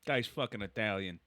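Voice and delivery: deadpan Bronx grandpa; Bronx accent. Retold or imitated. Grandpa remarking on the host, deadpan Bronx accent. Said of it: "So he has a Bronx accent".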